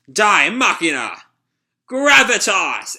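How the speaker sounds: battle cry. Acted. Hero attacks the robber.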